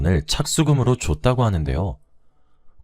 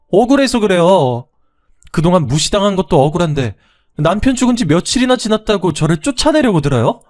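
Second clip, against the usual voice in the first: indignant protest; 10 semitones higher, 5 dB louder than usual. Acted. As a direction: fight back against the unfair blame. Daughter-in-law protests.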